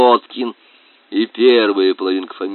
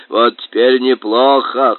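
grunting boar voice; 5 dB louder than usual. Acted. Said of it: "хрюкал он".

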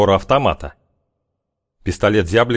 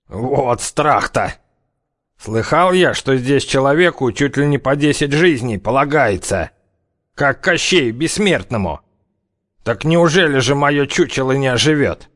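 насмешливый бравый вояка; 6 semitones higher than usual. A narrator's reading. Зяблик насмехается над угрозой.

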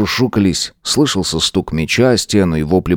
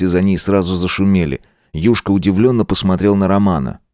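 plain reading voice

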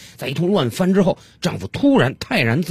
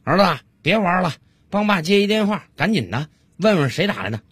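lightly voiced busy father; dad calling out; 5 semitones higher than usual. Busy dad calls his son to the phone, mild calling voice. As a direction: call to your child with mild hurry. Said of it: "小李就冲他儿子喊了一句".

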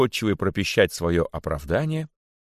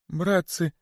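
very high plea, growing louder; pleading cry; 11 semitones higher, 4 dB louder than usual. A narrator's reading. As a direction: beg the crowd for mercy. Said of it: "закричал находчивый". (жалобный крик о пощаде)

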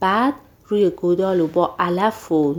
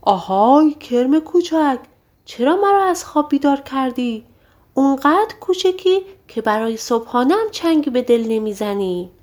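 angry giant roar; 6 semitones higher than usual. A narrator's reading. Giant to Jack after being woken, angry bellow. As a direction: boom it at the tiny pest who woke you. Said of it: "با عصبانیت فریاد کشید".

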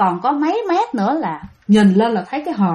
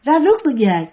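long-drawn, higher wail from the coffin; chilling ghostly voice; 3 semitones higher than usual. Retold or imitated. Ghost heard by boatmen before dawn, chilling slow wail. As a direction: call out slowly like a restless spirit. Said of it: "Giọng nghe rờn rợn".

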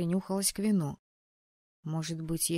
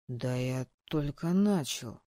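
put-on slow, lower drunk protest; drunk indignation; 5 semitones lower, slower than usual. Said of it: "пьяно возмутился дракон".

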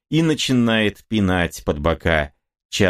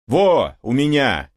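shouting; 7 semitones higher than usual. Acted. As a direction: call it out proudly, higher. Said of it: "кричит латошник". (лоточник кричит стрельцам, что камелавка у него)

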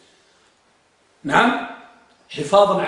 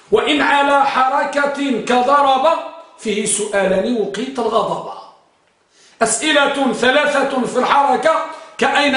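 measured, rhythmic recital of a teaching poem; verse recitation. Shown as a demonstration. Teacher reciting grammar verse to students, measured recitation. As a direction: recite the couplets line by line, stretching rhymes.

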